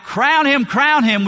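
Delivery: loud, high cheering chant; crowd cheer shout. Retold or imitated. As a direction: cry it out like an adoring crowd. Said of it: "crying out".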